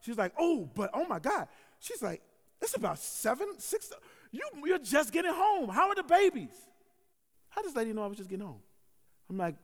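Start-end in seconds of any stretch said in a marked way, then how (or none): 0.4-1.5 slow, high, lightly imitated old lady. Old neighbor reacting to the shooting, imitated old lady voice. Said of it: "so it's my old lady voice". 2.6-6.7 high, loud old-lady impression. Old neighbor asking pastor about his babies, old lady voice. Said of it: "so it's my old lady voice".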